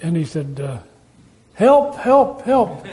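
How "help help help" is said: high-pitched hammed-up plea; mock cry for help. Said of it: "he started crying out for help".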